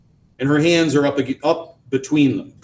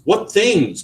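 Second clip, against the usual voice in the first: gently; 8 semitones higher, 3 dB louder than usual. A narrator's reading. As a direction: ask it tenderly. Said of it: "Cal asks gently".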